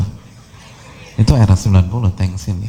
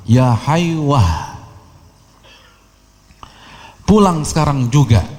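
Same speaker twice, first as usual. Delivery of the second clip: mother calling her son home, a bit higher; mild mock call of an old mother; 4 semitones higher, slower than usual. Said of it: "ibunya teriak".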